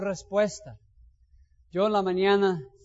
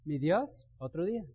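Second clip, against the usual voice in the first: softly hopeful; 2 semitones lower, 6 dB quieter than usual. Shown as a demonstration. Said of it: "Y otra gente que dice".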